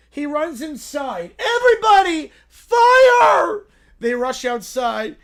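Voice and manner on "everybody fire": loud, high bear yelling fire; little bear raising the alarm; high alarmed shout. Acted. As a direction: scream the warning to the house.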